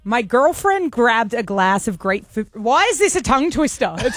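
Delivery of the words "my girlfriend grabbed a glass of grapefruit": halting, careful American accent. Shown as a demonstration. Co-host reading test sentence aloud, tentative American accent. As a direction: slowly attempt an American accent. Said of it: "read out in an American accent".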